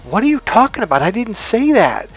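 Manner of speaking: high, incredulous mock protest; exasperated denial. Answering a friend who twists your words, with high exasperated disbelief. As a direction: act baffled and fed up at the accusation. Acted argument, denying the accusation.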